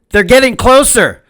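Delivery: high, pressing warning; urgent shout. Acted. Mendel warning the matzo man, high urgent call. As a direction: warn him the crowd is near. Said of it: "Mendel shouted".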